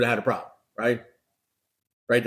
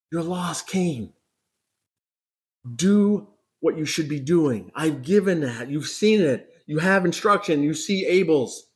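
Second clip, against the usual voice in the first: pleading; 3 semitones higher than usual. Acted. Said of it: "He's pleading with Cain".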